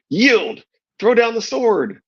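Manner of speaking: high, forceful battle shout. A narrator's reading. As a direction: bark the command down at him.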